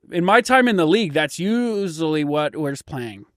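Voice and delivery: lightly voiced football veteran commentator; ex-player commentator. Ex-player offers insight from his time in the league, lightly voiced. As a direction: sound like a retired player giving analysis. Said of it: "that's the player's commentator".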